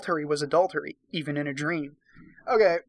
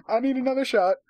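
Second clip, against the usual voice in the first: much higher and louder, giddy exasperation; exasperated outburst; 7 semitones higher, 3 dB louder than usual. Real, not acted. Reader apologizing to viewers, giddily exasperated. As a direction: cry out for another drink in disbelief. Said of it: "exasperated reader needs a drink".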